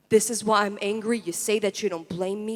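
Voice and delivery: firm rhythmic poetic chant; full-voiced refrain.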